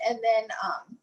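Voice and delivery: holding back a sob as she speaks; quiet, choked-up words through real crying; tearful. Real, not acted. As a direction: voice catching with real tears. Grieving mother recounting son's death.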